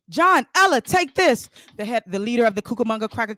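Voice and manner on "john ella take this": high, loud call out; urgent call. Acted. The leader shouts to John and Ella over gunfire, high and loud.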